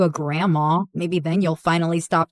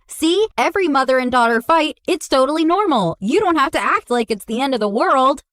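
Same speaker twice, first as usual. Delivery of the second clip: imitating mom; 6 semitones higher, faster than usual. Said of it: "and she goes".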